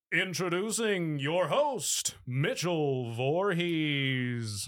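very slow TV announcer voice, name drawn out. Introducing the host in the announcer style again: Don Pardo announcer voice. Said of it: "I am Don Pardo".

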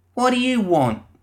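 harsh, rough, very high-pitched demanding voice. Reading a story, a voice greets a visitor to an office: rough demanding voice. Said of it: "a rough voice demanded".

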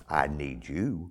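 small, still, low, hushed voice. Retelling the Lord's reply to the speaker, in a small voice. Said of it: "the Lord said in that small voice".

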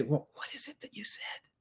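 hushed, soft, calming whisper, barely audible. Showing how to answer someone yelling at you: whispering. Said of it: "you go down here and you whisper".

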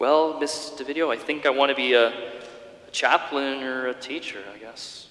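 pitiful, utterly miserable, abysmal sad voice. Retelling talking to the campus minister, in a mock-pathetic sad voice. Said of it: "in the most pathetic, sad, abysmal voice".

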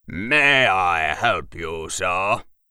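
deep, polished, cultured, refined, very slow delivery. A narrator reads a man's line offering help, in a deep, refined, cultured voice. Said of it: "he asked in a deep, refined and cultured voice".

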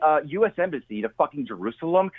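ordinary talk

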